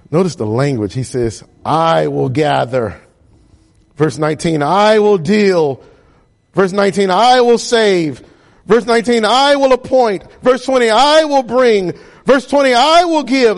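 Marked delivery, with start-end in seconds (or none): 1.6-13.6 building preaching crescendo. Real, not acted. Preacher builds the list of promises.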